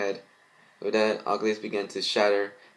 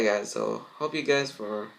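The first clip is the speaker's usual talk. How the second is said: plain reading voice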